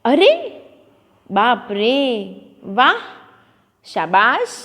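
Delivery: teacher acting out अरे, बाप रे, वाह, शाबाश for the class; exclamations. Shown as a demonstration. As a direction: give each interjection its feeling. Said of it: "जैसे".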